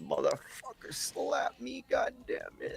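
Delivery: very quiet, whispered, barely contained fury. Acting out a reaction after being slapped in a fight: acting out held-back rage. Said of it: "holding back the rage of just being super pissed off".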